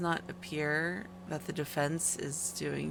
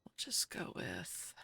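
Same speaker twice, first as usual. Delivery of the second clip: whispering; 6 dB quieter, slower than usual. Real, not acted. Muttering while driving.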